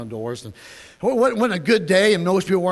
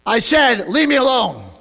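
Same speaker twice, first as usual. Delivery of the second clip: higher retold rebuff; firm refusal; 6 semitones higher, 6 dB louder than usual. Lady inside rebuffing the persistent caller, firm. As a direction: send the caller away firmly.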